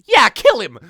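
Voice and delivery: high loud yell; shouting. Acted. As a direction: scream it out. Goku calls for the hit.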